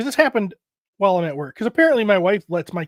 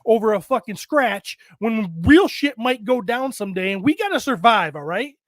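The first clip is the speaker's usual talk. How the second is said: retold dad pep talk. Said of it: "I'm like".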